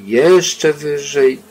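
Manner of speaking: slowed, swelling emphasis; drawn out. A narrator's reading. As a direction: drag it out like the climb never ends. Climbing higher and higher.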